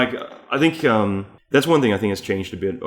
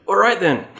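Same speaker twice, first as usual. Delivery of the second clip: high, louder put-on voice; mock awkward player; 11 semitones higher, 5 dB louder than usual. Imitating a player nobody answered, mock awkward. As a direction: lightly act the snubbed newcomer.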